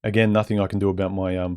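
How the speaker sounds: words mushy around a mouthguard; wearing a mouthguard. Real, not acted. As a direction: speak as if a mouthguard is in. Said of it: "It's like talking with a mouth guard in".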